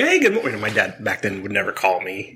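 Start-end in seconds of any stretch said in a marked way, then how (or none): 0.0-0.6 bright high mock-friendly dad voice; imitating a dad fishing for a confession; dad's chirpy greeting. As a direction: play the dad, sweetly innocent, pitched way up. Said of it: "He's like".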